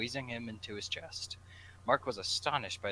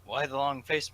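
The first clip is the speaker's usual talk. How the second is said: Bob's voice; 5 semitones higher, 8 dB louder than usual. Acted. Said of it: "Bob asked".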